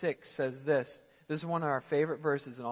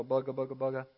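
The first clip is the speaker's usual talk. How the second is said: mock baffled mumble; 3 semitones lower, 3 dB quieter, faster than usual. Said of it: "you start to go".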